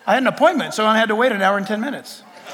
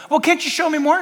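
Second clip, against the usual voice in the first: mildly pleading, higher-pitched question; lightly voiced pleader asking God for more; pleading believer; 6 semitones higher than usual. Acts pleading believer versus God.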